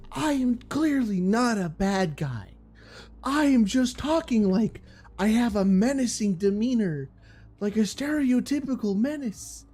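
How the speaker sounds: lightly hammed-up menacing villain, mocking; a hint of a stereotypical menace, sneering; mock Scar voice. Streamer mocking the boring villain Scar, lightly menacing mock voice. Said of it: "he talks like this".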